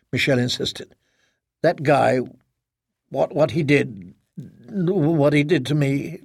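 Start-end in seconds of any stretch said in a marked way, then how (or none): 1.6-6.2 slow, faltering, voice catching. Acted. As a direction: choke on the words, slowly. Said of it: "Her voice caught in her throat".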